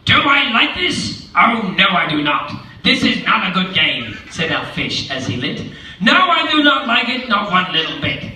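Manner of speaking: grumpy fish. Acted. The fish complains in the pot, mildly peeved. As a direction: sulk like a soggy fish.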